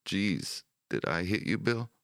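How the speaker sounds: high, rising, anxious question; narrator's acted alarm, close to tearful; almost in tears. A narrator's reading. Soldier who misfired checking on his comrade, almost in tears. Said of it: "The man was almost in tears".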